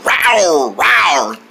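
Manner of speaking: playful single rawr; pretend tiger roar.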